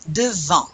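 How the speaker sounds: "Devant" ending on a nasal vowel, no N or T; modelled "Devant" with silent nt. Shown as a demonstration. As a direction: drop the chin and let "Devant" end nasally. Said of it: "Do you pronounce the N T?".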